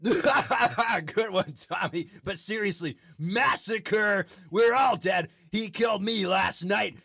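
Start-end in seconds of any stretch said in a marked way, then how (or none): 3.2-5.3 mock doom shout. Anchor shouting doom on air.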